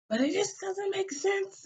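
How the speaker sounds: high, whiny protest; high pitched indignant objection; exasperated protest. Retold or imitated. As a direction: squeak it out in frustration. Arguing with brother, exasperated.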